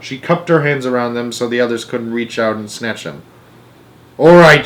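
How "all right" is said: loud, higher and gleeful; greedy grandma shouting with glee; excited shout. A narrator's reading. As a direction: crow it out in triumph. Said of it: "she shouted excitedly".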